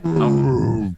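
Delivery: drawn out bear call in character. Acted. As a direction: stretch it like a bear calling. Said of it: "that, excellent. That's spot on".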